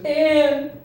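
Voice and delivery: high, loud, long-drawn mock yell; exasperated brother. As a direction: wail it slowly, stretching out each word. Exasperated brother yells at her.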